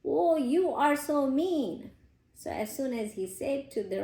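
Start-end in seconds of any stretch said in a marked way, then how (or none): 0.0-1.9 mock yell. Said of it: "started yelling at the rock".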